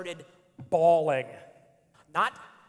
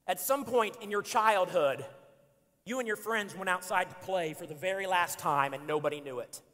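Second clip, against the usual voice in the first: read aloud. Shown as a demonstration. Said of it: "I'm gonna read it again".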